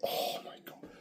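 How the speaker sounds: whispered oh my God; awed whisper. Real, not acted. In awe of a rapper, a breathless whisper. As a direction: breathe it out in disbelief.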